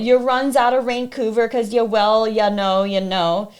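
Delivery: put-on sing-song sneer at the girl; mocking stalker voice. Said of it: "mocking me".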